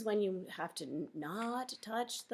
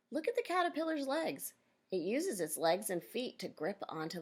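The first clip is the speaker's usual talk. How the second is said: clear, measured read-aloud for a class; reading to children. Acted. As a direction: read the picture book out to the kids. Teacher reads book to class.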